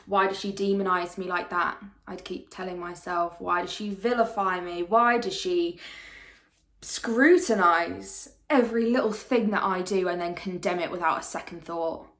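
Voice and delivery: loud, insistent, building protest; indignant questioning. Acted. Replaying questions she kept asking herself, indignant. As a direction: drive each question harder, easing at the end.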